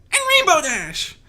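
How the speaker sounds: high, loud snapping filly voice; aggressive snap. Acted. Skulu demanding about Rainbow Dash, loud snap. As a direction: snap it out, nervous bravado. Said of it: "Skulu snapped aggressively".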